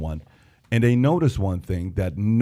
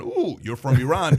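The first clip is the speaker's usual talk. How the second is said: lightly acted second thoughts, less high and questioning; mock wariness; 3 semitones higher than usual. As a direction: lead with a drawn "ooh", mildly uneasy. Same reply repeated, now wary.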